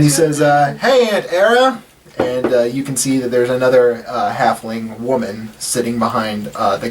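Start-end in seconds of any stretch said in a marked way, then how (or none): 0.8-1.8 high, chirpy greeting; Rendil. Acted. Nephew greeting his aunt at the counter, high chirpy voice. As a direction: pitch it up, sing out hello.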